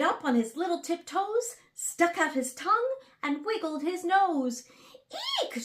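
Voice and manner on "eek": shriek. A narrator's reading. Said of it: "shouted the elephant".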